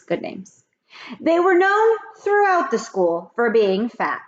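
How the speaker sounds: lively read-aloud storytelling; story narration. A narrator's reading. Teacher reading a chapter aloud to kids, lively. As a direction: read it like a teacher to her class.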